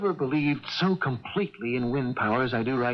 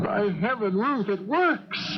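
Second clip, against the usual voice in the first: higher and slow, swelling with joy; excited triumph; 5 semitones higher, slower than usual. Acted. Inventor tells his wife the car runs, slow elated cry. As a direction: savour each word of the triumph.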